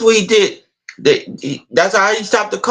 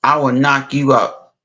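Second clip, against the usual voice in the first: mock threat; 6 semitones lower than usual. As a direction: lower tough-guy threat. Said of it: "Debo said".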